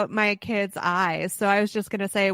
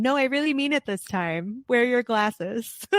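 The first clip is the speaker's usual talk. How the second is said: half-hearted imitation of a mom begging; pleading mom; 4 semitones higher than usual. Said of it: "disregard mom saying".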